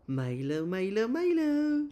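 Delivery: slow, rising, high call of the name; drawn-out name call. Real, not acted. Calling the dog slowly and high to excite him. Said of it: "And now he's smiling".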